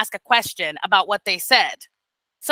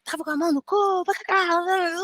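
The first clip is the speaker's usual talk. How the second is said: mock scolding parent; 7 semitones higher, 4 dB quieter than usual. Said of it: "I'm obviously not gonna be like".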